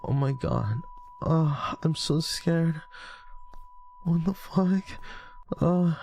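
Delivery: high, moany mock fear; unconvincing high-pitched fright; pretend scared. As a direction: fake being scared, badly, in a high voice. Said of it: "that's how you act scared".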